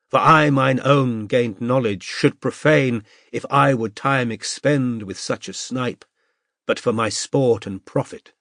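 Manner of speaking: slow, measured Shakespearean recitation; lightly theatrical slow Shakespeare reading; Iago soliloquy. Acted. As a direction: declaim Iago like an eager amateur actor. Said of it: "launched at once into Iago's soliloquy".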